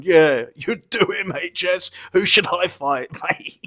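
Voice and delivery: slow, lightly mocking whiny sidekick voice; a hint of a smug little sidekick, drawn out; mocking the twerp. Mocking the little twerp from Hull egging H S on, lightly mocking voice. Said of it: "the little twerp from Hull going".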